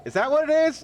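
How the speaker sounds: a touch of mock outrage; incredulous. Real, not acted. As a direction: squeak it out in disbelief. Mocking the name Escape.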